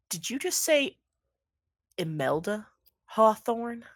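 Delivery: incredulous Southern drawl, lightly done; Southern accent. Acted. Man on stage questioning a stranger about his wife, Southern accent. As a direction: play a Southern stage ranter taken aback. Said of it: "Why is he Southern?".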